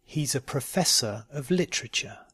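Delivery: "He's a professor of literature" slowly and carefully. Shown as a demonstration. Teacher giving learners a sentence to try, slowly. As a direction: take your time over "He's a professor of literature". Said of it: "first slowly and then".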